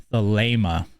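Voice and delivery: Thelema with a long AY in the middle; Thelema, middle syllable rhyming with "lay"; correct pronunciation. Shown as a demonstration. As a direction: say Thelema as thuh-LAY-muh. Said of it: "that is the proper pronunciation of it".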